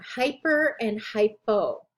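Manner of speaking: "hyper and hypo" slowly, endings per and poh kept apart; clearly distinct endings. Shown as a demonstration. Teacher pausing on two confusable prefixes, clearly distinct. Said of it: "that they are very clearly different".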